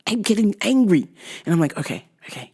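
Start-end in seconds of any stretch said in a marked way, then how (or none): 1.8-2.5 forced calm. Retold or imitated. Forced calm with angry dad.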